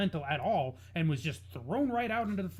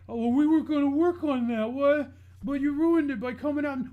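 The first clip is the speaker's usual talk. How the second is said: higher, louder mocking quote; mock excuse; 8 semitones higher, 5 dB louder than usual. Co-host parroting excuses for a ruined gimmick, mocking. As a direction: throw the excuse back in a raised, scornful mimic.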